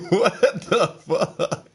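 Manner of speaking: mock-stunned what the fuck; shocked disbelief. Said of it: "I was like".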